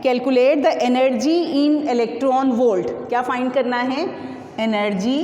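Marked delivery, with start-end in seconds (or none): 0.0-2.9 reading the problem out slowly, word by word; slow read-aloud. Shown as a demonstration. Teacher slowly reads the book problem aloud to students, dictating. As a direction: dictate the textbook question to the class. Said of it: "problem में कहते हैं".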